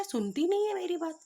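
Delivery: high-pitched indignant outburst; exasperated complaint. Retold or imitated. Husband justifies himself to the neighbours, exasperated. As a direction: protest crossly, pitch jumping at the end.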